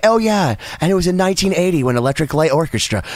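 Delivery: calm rocker impression. Retold or imitated. Host mimics a singer's radio calm, lightly imitated. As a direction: lay back and tell it like an unbothered old rocker. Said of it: "very calmly be like".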